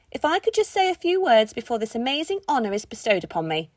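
posh voice. Acted. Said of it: "in an incredibly posh voice".

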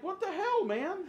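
laughing disbelief. Retold or imitated. Parodied viewer outburst, laughing.

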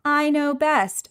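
prissy know-it-all mimicry; smug mocking voice. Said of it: "your smug".

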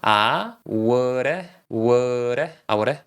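"would" softened to "woo-reh", D as a tapped R; easy linked pronunciation. Shown as a demonstration. Teacher breaking down an easy pronunciation, linked and reduced. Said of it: "발음을 쉽게 하는 법".

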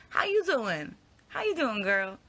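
put-on high playful how you doing girl; sassy greeting voice. Hearing a friend's question in her head, high and sassy. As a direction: tease it like a sassy best friend. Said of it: "whenever someone asks, like".

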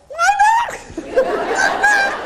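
shrill high yelled lie down; frightened yell at the loose dog; panicked shout. Retold or imitated. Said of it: "It was more like".

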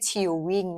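"chewing" said with an ee-oo glide, like chiw-wing; wrong vowel in chewing. Shown as a demonstration. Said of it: "ไม่ใช่ chewing นะ". (ออกเสียง "chewing" ผิดเป็น ชิว-วิ่ง)

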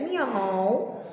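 a light mew like a cat; gentle cat sound; cat meow. Shown as a demonstration. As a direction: meow for the kids. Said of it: "I can mew like a cat".

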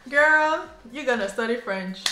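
loud mock command. Parents ordering their daughter to take French, with a loud, hammed-up command. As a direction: bark the verdict down at her.

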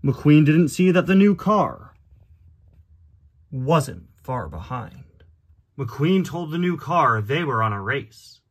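slow, grave storybook reading with long pauses; measured, dramatic story narrator; dramatic storybook narration. A narrator's reading. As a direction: narrate it like a solemn tale, unhurried. Reads the storybook aloud.

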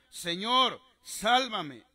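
narrated shout for help; crying out. A narrator's reading. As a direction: call out for rescue as a preacher reads it. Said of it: "dio voces diciendo".

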